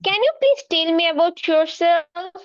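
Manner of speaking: very slow, clearly spaced English; teacher modelling slow English for a shy pupil. Acted. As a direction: lay out every word slowly for young learners.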